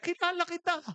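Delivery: very high, astonished exclaiming; imitated excited recognition. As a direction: act out a starstruck old woman recognizing someone. (gulat at sabik na panggagaya sa matanda)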